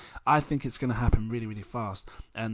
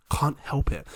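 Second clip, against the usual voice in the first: ordinary talk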